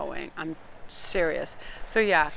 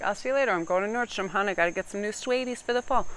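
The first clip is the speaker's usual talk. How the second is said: breezy brush-off; 4 semitones higher than usual. Acted. Acts breezy exit to Nordstrom.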